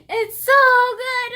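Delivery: high, laughing gush. Real, not acted. Laughing to viewers over the beloved book. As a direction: laugh through the praise.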